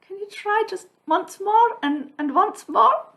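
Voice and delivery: high, laughing voice for the physio's request; quoting the physio's request, still laughing; giggly quote. Retold or imitated. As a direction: keep laughing while quoting her.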